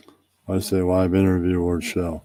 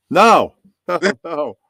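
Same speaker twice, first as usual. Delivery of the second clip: laughing; 8 semitones higher, 6 dB louder, slower than usual. Real, not acted. Laughing refusal of straightening hair.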